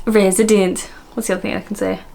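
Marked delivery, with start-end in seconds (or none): 0.1-0.8 one word in melodic Welsh; attempted South Wales lilt; Welsh accent. Vlogger copying a Welsh clip, melodious Welsh.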